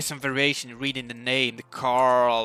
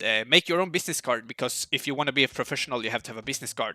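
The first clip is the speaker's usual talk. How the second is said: fast, wired chatter; too much caffeine; faster than usual. Real, not acted. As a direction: rattle it off, over-caffeinated. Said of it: "I'm really speeded up here".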